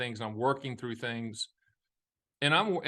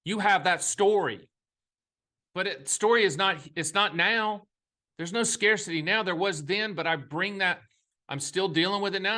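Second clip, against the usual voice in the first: moved by a painful memory, pitch raised; real emotion; 3 semitones higher than usual. Real, not acted. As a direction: speak from a hurt that still lingers. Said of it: "just me talking about that brings tears to my eyes".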